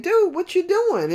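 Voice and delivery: high, loud surfer-dude call; laid-back wave. Acted. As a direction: call out to a friend lagging behind. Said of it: "the wave behind it is saying".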